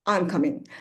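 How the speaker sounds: falling statement intonation on coming; falling answer tune. Shown as a demonstration. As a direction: let it fall, answering. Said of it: "Coming is going down".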